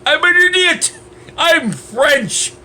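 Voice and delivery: high exaggerated French accent; mocking French accent. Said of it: "yeah, it's like".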